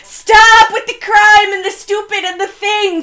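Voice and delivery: slow, high, loud plea through laughter; laughing plea. Real, not acted. Co-host protesting the criminal story, slow laughing shout. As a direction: beg them to quit while cracking up.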